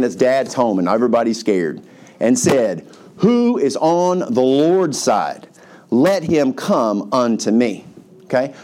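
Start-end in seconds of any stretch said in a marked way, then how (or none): 3.2-7.8 slow, drawn-out proclamation; mock yell. Moses challenges the camp at the gate, measured mock yell. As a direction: call out a challenge without full volume. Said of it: "So he yells this out".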